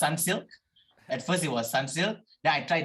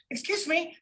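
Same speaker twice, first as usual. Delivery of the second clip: retold girl asking. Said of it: "she was like".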